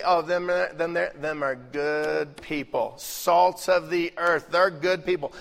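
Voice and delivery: a light Southern drawl, imitated; Southern accent. Folksy preacher to congregation, light Southern accent. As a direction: slip into a mild Southern accent. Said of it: "You get that little accent going".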